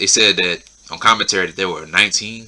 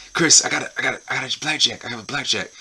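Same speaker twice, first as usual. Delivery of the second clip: hushed and quick, higher, dropping softer; retold whisper; 4 semitones higher, 5 dB quieter, faster than usual. Sammy secretly telling Jericho his cards, hushed. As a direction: sneak the secret line under your breath. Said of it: "whispers to Jericho".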